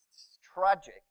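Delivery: breathy whisper of real sorrow; hushed whisper; whispered aside. Real, not acted. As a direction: say it under your breath, sadly. Sad aside about old acquaintance.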